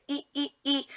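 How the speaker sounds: put-on child calling out; imitating a toddler. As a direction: mimic a little boy calling his brother. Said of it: "he would say".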